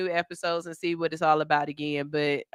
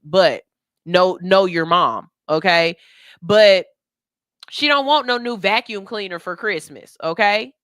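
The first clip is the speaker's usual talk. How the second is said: emphatic warning; 2 semitones lower, 6 dB louder than usual. Real, not acted. Warning viewers about gifts for mom, loud and firm. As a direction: lean in hard on them.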